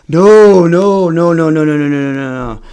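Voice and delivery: long first no tumbling into a rapid string; mock panicked backpedaling, trailing down; flustered refusal. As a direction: protest in a nervous run of no's.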